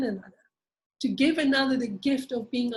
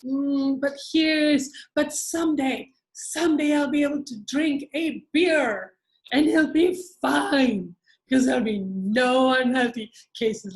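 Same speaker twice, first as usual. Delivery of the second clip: mock bargaining addict; 2 semitones higher, 3 dB louder, slower than usual. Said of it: "start to wiggle and squirm".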